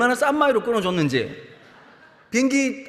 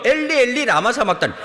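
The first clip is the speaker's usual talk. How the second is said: mock anguished cry; 2 semitones higher, 5 dB louder than usual. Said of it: "이렇게 기도가 나오죠".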